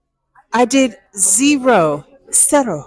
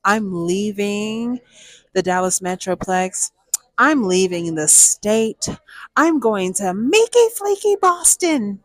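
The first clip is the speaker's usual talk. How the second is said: extra dramatic. Retold or imitated. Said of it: "I feel extra dramatic one day".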